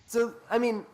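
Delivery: high, laughing through the words. Real, not acted. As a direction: giggle while talking. Laughing fit after the joke.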